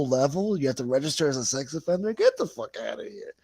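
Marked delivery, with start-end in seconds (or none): 2.1-3.3 higher, put-on Boston twang; mock Massachusetts accent. Reacting to the sex offender law in a mock Massachusetts accent. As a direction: say it like a Massachusetts guy. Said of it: "I said it like that".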